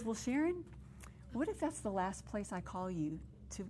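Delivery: softened voice, coaxing questions; gentle divine questioning. Retold or imitated. Retelling the Lord answering her nursing home fear, gently. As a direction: retell it softly, as a tender challenge.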